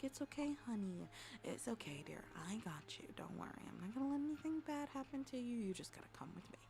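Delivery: put-on gently calm a frightened child; acted tender, hushed comforting; soothing reassurance. Adult promises lost little girl nothing bad will happen, soothing.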